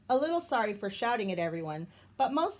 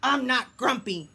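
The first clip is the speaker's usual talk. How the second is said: insisting; 3 semitones higher, 5 dB louder than usual. Acted. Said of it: "Jim insisted".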